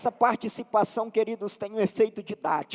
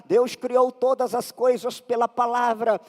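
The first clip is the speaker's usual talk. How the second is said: emphatic sermon delivery; preaching; 3 dB louder than usual. Acted. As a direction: drive the point home to the congregation. Preaches at full force.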